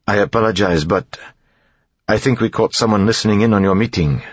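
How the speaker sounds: understated apology to a superior; apologetic captain. A narrator's reading. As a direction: report with a touch of embarrassment. Embarrassed captain reporting to king.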